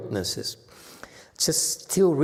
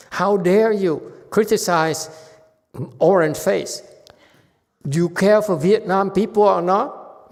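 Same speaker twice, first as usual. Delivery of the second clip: indignant scold; 7 semitones higher, 6 dB louder than usual. Retold or imitated. Student scolds teacher over president.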